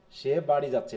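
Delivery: low tune, no rise on যাচ্ছে; simple statement. Shown as a demonstration. Teacher showing a simple statement, falling tune on যাচ্ছে. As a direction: let যাচ্ছে settle down as fact. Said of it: "এটা simple".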